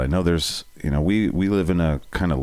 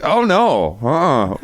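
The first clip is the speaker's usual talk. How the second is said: higher, louder mock dismay; disapproving engineers; 6 semitones higher, 4 dB louder, much slower than usual. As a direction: play shocked engineers. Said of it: "they were just like".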